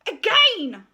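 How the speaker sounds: high, slow, self-important voice; pompous art teacher. Acted. Art teacher announcing her decision to the school, pompous and high. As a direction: preen over the assembly. Miss Conceit rejects the work.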